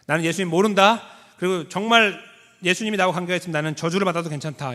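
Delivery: mock desperate Peter; vehement oath. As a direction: swear it out fast to save yourself.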